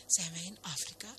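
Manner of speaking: understated hushed question; softly voiced whisper. A narrator's reading. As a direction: ask it softly, as a mild stage whisper. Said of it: "fluisterde de damesgroen".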